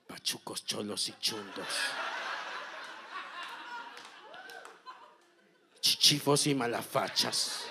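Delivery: a hint of a soft, low healer murmur; lightly voiced mystic chant in the ear; holistic murmur. Masseuse murmuring into the client's ear, lightly voiced holistic murmur. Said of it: "le dice en el oído con voz, eh, holística".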